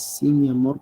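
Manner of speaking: a hollow yes just to get it over with; dutiful reply. Shown as a demonstration. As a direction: brush off the request, only going through the motions. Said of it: "por cumplir".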